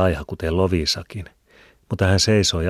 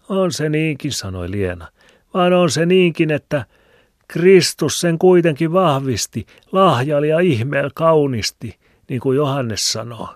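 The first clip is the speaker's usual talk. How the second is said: put-on much higher, louder preachy old woman; pious old woman; 10 semitones higher, 7 dB louder than usual. A narrator's reading. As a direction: lecture him piously. Liena voiced. (hurskas vanha eukko)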